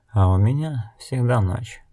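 understated, rueful remark; a touch of wry sadness; joyless smile. Acted. Blind woman tells the old ferryman of her night, joyless smile. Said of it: "невесело улыбнулась Нелти".

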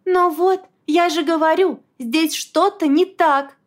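high, loud triumphant cry; gleeful. A narrator's reading. Wife delighted her point is proven, gleeful. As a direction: pounce on it gladly. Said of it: "обрадовалась Глашка".

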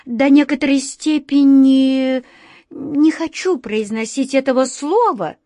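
high, squeaky little mouse, a bit embarrassed. A narrator's reading. A shy black mouse squeaking to the others, high and timid. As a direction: squeak it out shyly like a tiny mouse. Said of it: "пискнула одна из чёрных мышей".

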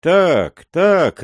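roaring crowd. A narrator's reading. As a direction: bellow agreement as a mob. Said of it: "ревели голоса".

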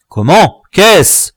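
high, indignant questions; startled exclamation. A narrator's reading. Dwarf interrupted by the chief's arrival, startled cry. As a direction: cry out in disbelief. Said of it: "s'écria-t-il".

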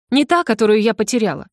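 ordinary delivery

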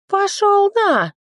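very high, slow, loud outburst; fairy and sword snapping at the hero; joint snarl. A narrator's reading. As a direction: spit it out together in fury. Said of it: "в тон заявили".

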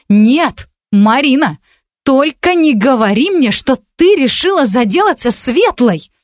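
high, slow horrified plea. A narrator's reading. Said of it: "ужас отразился на её лице". (в ужасе, умоляюще)

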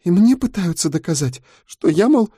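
a scared teacher barely holding back tears; young teacher telling a fellow prisoner her plight; frightened young woman. A narrator's reading. Girl continues tearfully.

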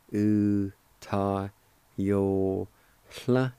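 U ta yo hla said syllable by syllable, each one separate; native pronunciation. Shown as a demonstration. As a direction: break U ta yo hla into slow parts. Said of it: "pronounced like this".

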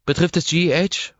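high, worried question. A narrator's reading. Assistant Ross asking her boss, worried. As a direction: ask with concern. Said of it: "fragt Ross beunruhigt".

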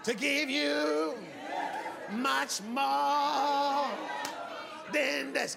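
drawn-out preacher cadence with long pauses; Black preacher style. Acted. Preacher playfully asking for a word to land, Black preacher style. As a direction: stretch the key words like a Black preacher. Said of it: "help me preach like a black man".

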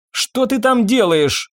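high, slow call across the room. A narrator's reading. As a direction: shout to him from afar. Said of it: "крикнула ему Ирен".

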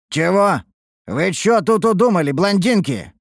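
high, loud incredulous outburst; aghast objection, pitch jumping up; indignant cry. A narrator's reading. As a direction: cry out in sudden protest. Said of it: "возопил вдруг Харан".

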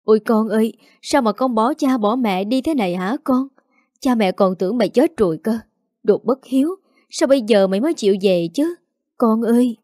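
mildly acted sobbing wail of a mother; a touch of tearful wailing as she clings to her child; tearful crying mother. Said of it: "bật khóc nức nở".

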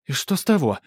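high, loud stubborn whine; cartoon princess. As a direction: refuse to back down, whining. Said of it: "не сдаётся принцесса". (упрямая капризная принцесса)

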